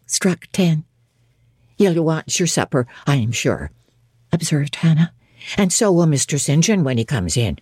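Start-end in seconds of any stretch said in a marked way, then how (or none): 1.8-3.7 a lightly voiced old servant; lightly voiced old housekeeper. Hannah speaks. 5.6-7.6 a lightly voiced old servant; lightly voiced old housekeeper. Hannah speaks.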